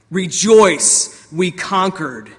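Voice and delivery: loud first word, then slowing victory call; mock shout. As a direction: proclaim it, a mild mock shout. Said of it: "he shouts".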